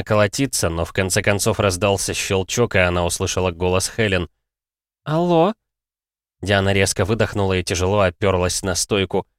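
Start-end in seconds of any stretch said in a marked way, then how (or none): 5.0-5.5 Helen's voice. Acted. Helen answers phone.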